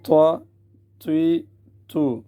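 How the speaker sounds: full, emphatic t on each syllable; heavy taa. Shown as a demonstration. Teacher shows tongue rising upward, making the t heavy. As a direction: raise the tongue for a thick t. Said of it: "زبان اوپر کی طرف اٹھے گی".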